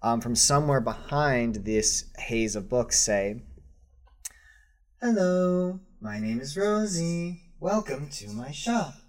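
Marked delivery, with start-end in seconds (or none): 5.0-9.0 high, melodic droid voice; a sweet shopkeeper robot greeting; sweet robotic voice. Acted. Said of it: "sweet, melodic, robotic voice".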